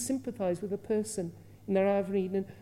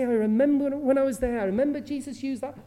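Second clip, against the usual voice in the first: higher, louder eyewitness voice, a touch of Peter; lightly voiced Peter recalling the scene; eager fisherman retelling what he saw; Peter remembering; 4 semitones higher, 6 dB louder than usual. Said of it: "Peter was to say".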